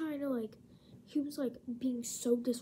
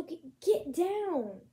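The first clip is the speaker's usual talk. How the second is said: sharp raised "get down" at the cat; scolding the cat; 4 semitones higher, 6 dB louder, slower than usual. Real, not acted. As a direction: order the cat off, firm and loud.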